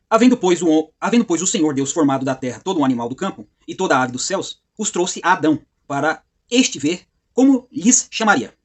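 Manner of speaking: emphatic Bible reading, slowing towards the end; formal, weighty read-aloud; scripture reading. Acted. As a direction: proclaim the verse with deliberate pauses. Reads scripture verse aloud.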